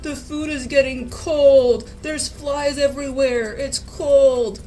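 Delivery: retold grumbling. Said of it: "he came stomping behind me".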